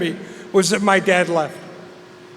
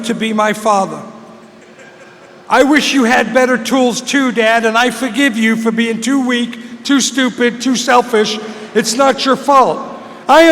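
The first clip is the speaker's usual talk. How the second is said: mock-benevolent, emphatic put-down; condescending forgiveness; 2 semitones higher, 4 dB louder than usual. Son grandly forgiving his inadequate dad, condescending. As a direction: hand out forgiveness as if from above. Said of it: "that's what that sounds like to hear".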